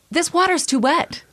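high-pitched pretend whiner; mock complaint. Mimicking a tourist's silly one-star review, high mock complaint.

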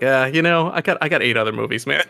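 lightly voiced tired waitress; a touch of worn-out server; exhausted waitress. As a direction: brush it off, mildly weary. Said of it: "I was like an exhausted waitress".

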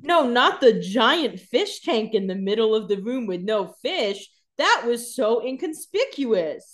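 slow, dripping sarcasm in a put-on voice; mock how obvious the hiding spot is; sarcastic mockery. Co-host voicing Catherine sarcastically about the fish tank.

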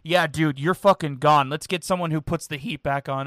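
loud dismissive boss voice; mock owner yelling. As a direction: bark it like a fed-up owner. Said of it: "why would the owners be like".

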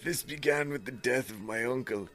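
lightly voiced woman's last message; man doing a woman's voice. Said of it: "this is still her".

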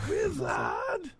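high shouted call; shouting. Pretend. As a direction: yell the word out. Shouted joke.

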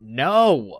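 all-out defiant yell; furious shout. Acted. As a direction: blast the refusal with fire. Defiant refusal to the demon.

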